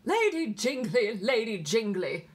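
loud, slow English nurse reciting; pure English accent. A narrator's reading. Nurse reciting verse to little girl, English accent. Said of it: "came the pure accents of the Sweeney's nurse".

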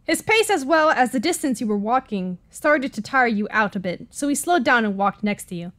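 usual speaking voice

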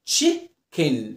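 "chicken" said as chi-ken, falling at the end; syllable-split "chicken". Shown as a demonstration. Teacher shows learners the I and E sounds, "chicken" split in two. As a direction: break "chicken" into two separate short-vowel syllables. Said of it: "شوف بقي عامل ازاي في ال I وال E".

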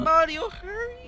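high urgent call; urgent shout. Real, not acted. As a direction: yell to hurry up. Urging teammate during chase.

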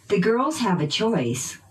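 put-on "girls" and "choice" stressed by pitch; noun stress. Shown as a demonstration. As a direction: drill model, peaks on "girls" and "choice". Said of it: "using pitch change".

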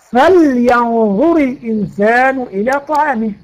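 slow, measured recitation of a verse; Quran recitation. Shown as a demonstration. Teacher reciting a verse to illustrate lam al-amr, measured recitation. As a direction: recite it slowly as a model example.

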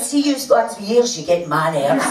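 high-starting rant that comes down in pitch; irritated telling-off. Retold or imitated. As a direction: act out an irritated scolding. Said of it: "She went".

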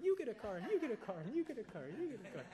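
high, loud, shouting out each prize; Oprah giveaway. Retold or imitated. Imitating Oprah for his podcast co-host, high excited shout. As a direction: belt it like a talk show host giving away cars. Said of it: "Isn't that Oprah?".

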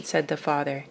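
usual speaking voice

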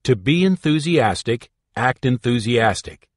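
the student echoing the instructor's motto with enthusiasm; enthusiastic repeat. Shown as a demonstration. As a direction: repeat it back with gusto. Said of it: "Now repeat this phrase".

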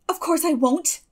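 put-on a flash of her old temper; Anne's quick spirited retort. A narrator's reading. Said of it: "flashed Anne with a momentary return of her old spirit".

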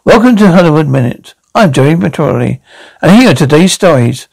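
news host read; host read, second take. Acted. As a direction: open the show like a TV host. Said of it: "Can I start again?".

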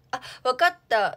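loud burst of recognition; sudden realisation. Real, not acted. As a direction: blurt it out as it clicks. Suddenly recognises the food asked about.

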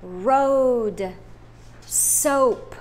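road and soap said out loud; loud model words. Shown as a demonstration. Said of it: "say them in a loud voice".

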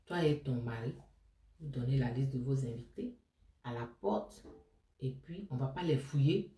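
calm her down like a kind hostess; reassuring. Retold or imitated. First lady reassures the crying bride.

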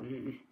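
short, soft, low grunt; low growl. Acted. Captain Bones considers the children's request, growling low. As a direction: grumble it low without words. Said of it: "Captain Bones growled".

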